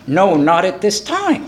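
slow, mock-composed refusal; very calm. Caught shoplifter answering store staff, very calmly. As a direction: answer slowly with feigned calm. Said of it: "I said very calmly".

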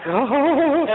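high mock blubbering "oh"; hammed-up wail of welling tears; imitated crying. Groom overwhelmed at the vows, mock blubbering. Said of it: "is he gonna cry".

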